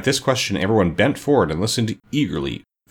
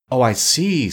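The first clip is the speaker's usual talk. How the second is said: higher-pitched dawning understanding; a touch of relief; relieved; 6 semitones higher, 3 dB louder, slower than usual. A narrator's reading. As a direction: let the worry go. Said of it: "much relieved".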